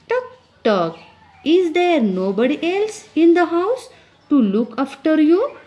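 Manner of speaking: high, loud scolding of a little brother; annoyed girl. Acted. Big sister scolding the baby away crossly. Teacher reads girl's angry lines.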